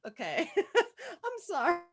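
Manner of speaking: laughing it off, slow and uneasy; nervous laugh. Acted. Girl laughing nervously at the boy's joke, slow and uneasy. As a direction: giggle nervously through the words.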